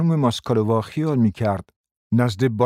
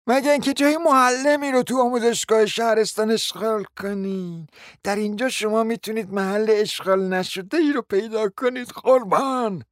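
sarcastic jab; 11 semitones higher than usual. A narrator's reading. Natalya voiced, sarcastic.

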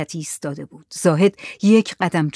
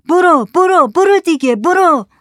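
high, loud repeated shouts; crowd shouting; 11 semitones higher, 7 dB louder than usual. Acted. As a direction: shout like a crowd driving someone away. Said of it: "جماعت داد زدن".

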